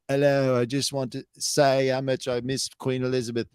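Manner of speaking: lightly put-on British speech; mock British speech opening; British accent. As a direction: mimic her addressing a crowd in British. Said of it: "giving a speech and she said".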